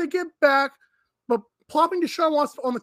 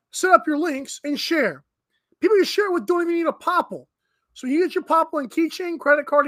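upbeat sponsor read, lightly sold. Acted. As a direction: read the ad like a radio spot. Host reads sponsor ad.

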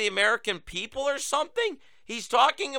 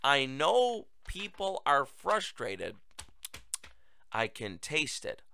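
softer, slow replay of his line; quiet mock quote; 4 semitones lower, 9 dB quieter, slower than usual. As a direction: mutter his words back in disbelief. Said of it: "Did he really just say".

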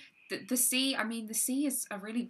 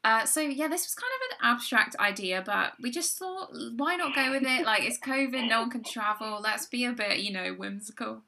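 measured, formal news-anchor read; newsreader voice. Acted. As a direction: present it like the evening news. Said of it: "I love it when you do the newsreader voice".

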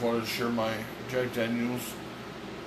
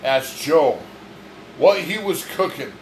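heated accusing; 3 semitones higher, 3 dB louder than usual. Real, not acted. Heated argument about who asked what.

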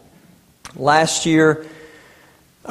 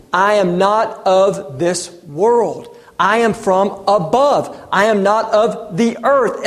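slow, weighty and deliberate; a hint of the voice of Jesus; solemn words of Jesus; slower than usual. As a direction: let each claim land, unhurried. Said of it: "he says to the people".

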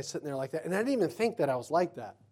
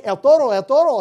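loud, high playful shout; mock bullfighter call; 7 semitones higher, 12 dB louder than usual. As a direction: call out the bull to tease the driver. Calls out jokingly like bullfighter.

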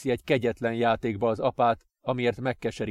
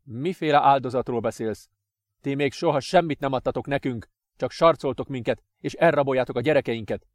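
louder, quickening accusation; angry father; 2 semitones higher, 4 dB louder than usual. Acted. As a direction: accuse him bitterly.

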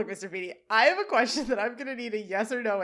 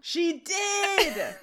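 laughing exclaim; 9 semitones higher than usual. Real, not acted. Excited reaction to denim outfit.

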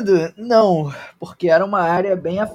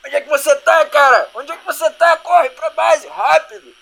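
loud, higher, urgent yelling; urgent radio shout; 9 semitones higher, 5 dB louder than usual. Acted. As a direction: bark urgent orders over radio. NPC yelling over radio.

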